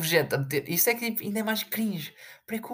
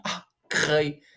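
mocking fan gush; much slower than usual. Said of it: "já acham".

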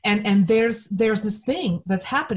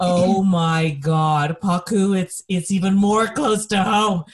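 excited interjection; 4 dB louder, slower than usual. Retold or imitated. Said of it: "I wanted to say".

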